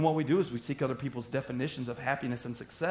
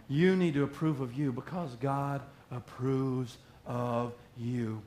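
slow; 2 semitones lower, slower than usual. Shown as a demonstration. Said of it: "let me say that slow so I can say it some more".

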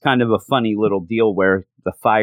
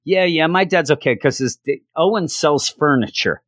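put-on somewhat higher kid voice, offhand; kid bragging lightly; 6 semitones higher than usual. Doug telling party kids his dad sells furniture, light kid voice. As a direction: shrug off dad's job to the other kids.

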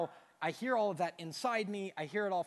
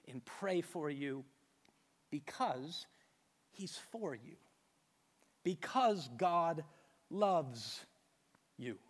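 tender and hushed. Acted. Tender close of point.

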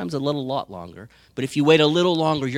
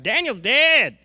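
high, loud wailing cry of grief; lamenting wail; 11 semitones higher, 6 dB louder, slower than usual. Retold or imitated. King mourning Daniel in the den, wailing high and loud. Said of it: "Like Jeremiah".

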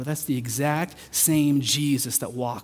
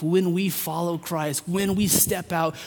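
usual speaking voice

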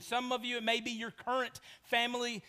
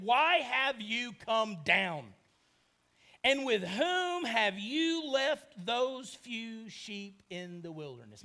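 put-on older brother scolding; slower than usual. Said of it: "and he said".

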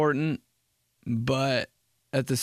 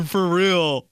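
loud, higher, laughing disbelief; mock amusement; 4 semitones higher, 5 dB louder than usual. Reacting to dot dot dot text, mock amused. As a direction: say it through a put-on laugh.

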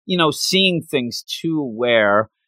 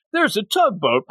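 raised, half-laughing storyteller voice; mock storyteller scene-painting; 7 semitones higher than usual. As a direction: paint the shore like a hammed-up rakugo teller. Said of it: "You know, this is me".

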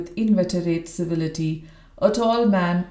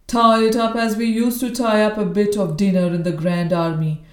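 put-on hoarse old soldier. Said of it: "a barrack room intonation of the worst order".

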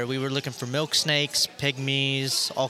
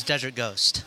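whispered; 2 semitones lower, slower than usual. Real, not acted. Names dream snake in whisper.

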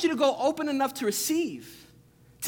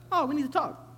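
ominous tone; 5 semitones higher, 3 dB quieter than usual. Retold or imitated. Reading the same text as a scary message, high "Oh". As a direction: swing the "Oh" up high, then say "we need to talk". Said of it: "discerning the voice".

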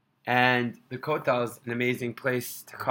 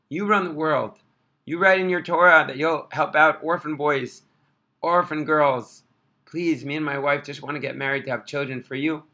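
crying prayer. Retold or imitated. Orphan boy at the Kotel, pleading tearfully. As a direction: beg Hashem through tears. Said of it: "he's crying like this".

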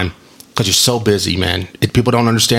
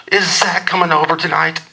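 high-pitched mock mom voice; imitated mom; 6 semitones higher than usual. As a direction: ask eagerly, as his mom would. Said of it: "This is what it sounds like".

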